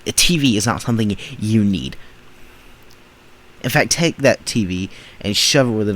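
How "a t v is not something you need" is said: loud, firm no; blunt, raised rebuttal; loud denial. Real, not acted. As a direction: shut the claim down. Flat denial to clip.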